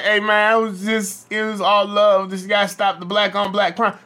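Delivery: hammed-up pleading that it was all love; mocking a rapper. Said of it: "now he on his Twitter like".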